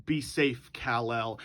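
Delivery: put-on low, soft goodbye to a baby son; hushed parting words; quiet farewell. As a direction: murmur it as a last goodbye. Dying father's farewell to baby.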